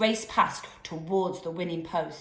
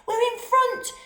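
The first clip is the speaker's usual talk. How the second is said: much higher, loud triumphant shout; triumphant yell; 6 dB louder than usual. A narrator's reading. Giles overtaking the panthers, triumphant yell. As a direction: crow about winning. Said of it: "Giles yelled triumphantly".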